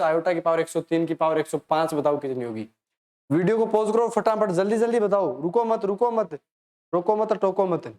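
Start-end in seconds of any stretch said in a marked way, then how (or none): 3.3-7.9 higher-pitched, insistent hurry-up; brisk urging. Real, not acted. Teacher pushing students to answer right away, urging. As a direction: urge them on without a let-up.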